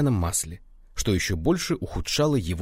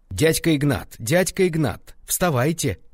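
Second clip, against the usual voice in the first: yelling; 7 semitones higher, 3 dB louder than usual. A narrator's reading. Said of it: "вопили они".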